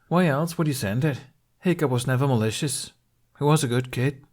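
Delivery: put-on a gruff friend standing up for the boy; Gobber, earnest. A narrator's reading.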